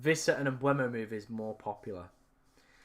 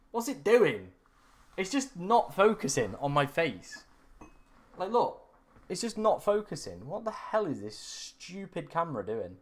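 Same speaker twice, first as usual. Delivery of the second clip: higher-pitched, mildly fed-up complaint; exasperated; 4 semitones higher than usual. Real, not acted. Streamer moaning that the camera won't focus on his face, exasperated. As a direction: complain in real frustration, pitch jumping up.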